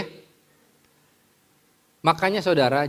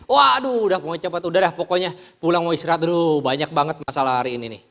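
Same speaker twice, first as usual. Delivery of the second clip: tired, hurried complaint; 2 semitones higher, faster than usual. Acted. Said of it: "Pulang udah capek, pengen rasanya istirahat cepet-cepet".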